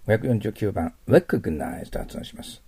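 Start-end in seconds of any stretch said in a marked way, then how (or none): 1.1-1.9 recognize with a clear English R and stress on the first syllable; teacher modeling recognize carefully. Shown as a demonstration. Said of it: "Rの発音とアクセントに気をつけてくださいね".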